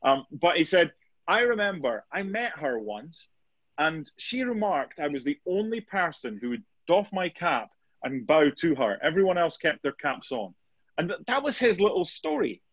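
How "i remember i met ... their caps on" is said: lightly put-on posh English storytelling voice; posh English accent. Guest telling his story of meeting the Queen, mock posh English accent. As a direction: retell it with a touch of posh English. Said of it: "putting on a posh English accent".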